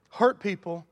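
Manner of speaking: full-voiced "Hurt people," stress on Hurt. Real, not acted. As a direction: hit "Hurt" firmly. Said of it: "you ought to just write down".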